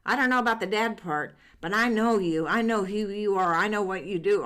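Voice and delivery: lightly voiced knowing father; dad's voice. Dad with Alzheimer's speaks.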